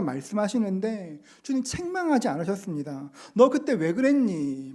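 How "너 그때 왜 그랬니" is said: mock rebuke. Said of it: "말씀하지 않으셨습니다".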